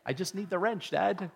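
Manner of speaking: put-on a touch of a bored kid, leaning on wrench; mock son, exasperated. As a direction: sigh it out as the son wanting just the tool. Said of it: "when John says".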